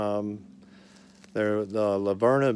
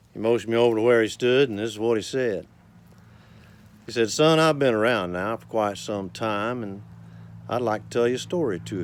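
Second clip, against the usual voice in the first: unhurried rhythmic storytelling recital; cowboy poetry recital. Acted. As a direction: recite it like a cowboy poet at a campfire.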